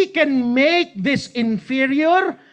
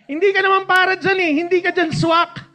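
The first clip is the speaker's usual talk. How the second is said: higher, louder, faster gentle scolding; God gently scolding, voiced higher; voicing the Lord; 8 semitones higher, 4 dB louder than usual. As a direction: tease him like a knowing parent.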